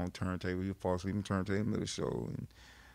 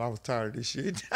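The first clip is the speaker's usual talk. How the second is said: laughing. Retold or imitated. Friend laughing about falling asleep.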